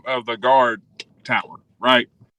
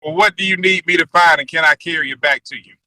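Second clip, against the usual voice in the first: mouse squeaks; 3 semitones higher than usual. Acted. Game master as the mouse offering to fetch for the player. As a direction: chirp it like an eager mouse.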